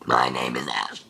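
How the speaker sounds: low belch cut short; burped words. Shown as a demonstration. Trying to burp her name for viewers, belched. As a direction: belch it out and run out of air. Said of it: "try and burp".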